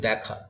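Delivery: দেখা said as dækha, with an open অ্যা vowel, not এ; vowel demo. Shown as a demonstration. Teacher shows students how দেখা is really pronounced, open vowel. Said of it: "উচ্চারণটা তো এ হচ্ছে না, অ্যা হচ্ছে".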